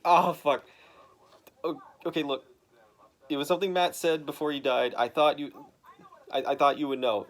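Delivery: imitating a loud flustered reply. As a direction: blurt it out rattled. Elektra flustered explaining.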